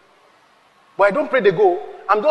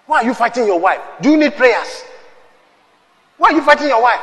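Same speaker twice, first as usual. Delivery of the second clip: scolding shout; 3 semitones higher than usual. Real, not acted. Preacher rebuking husbands.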